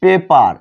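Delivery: পেপার with পে and পার joined; syllables joined, পেপার. Shown as a demonstration. Teacher showing how the word is pronounced, পেপার in joined syllables. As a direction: say পেপার as two clear syllables. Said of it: "তাহলে উচ্চারণ কি হবে".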